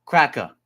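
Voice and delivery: "Cracker" with the ending relaxed to "crack-uh". Shown as a demonstration. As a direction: drop the final r on "Cracker". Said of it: "we usually say it like".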